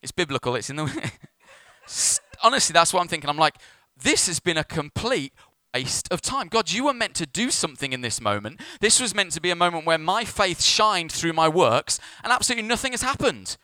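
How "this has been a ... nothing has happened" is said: high, exasperated retold protest; exasperated complaint. Pastor complains to God about wasted moment, exasperated protest. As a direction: protest to God, climbing higher at the end.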